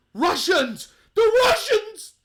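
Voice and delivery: mock her sudden panic, building to a loud cry; mock alarm. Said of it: "she goes down to".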